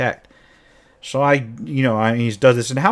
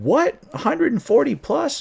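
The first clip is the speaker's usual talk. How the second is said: high, startled question; shocked disbelief; 14 semitones higher than usual. Retold or imitated. Players reacting to a hundred-forty evil sources, shocked and high. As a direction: players gasping at the number, pitched way up.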